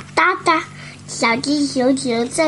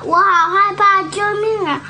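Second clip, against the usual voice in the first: scared; 5 semitones higher than usual. Acted. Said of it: "小猫好害怕".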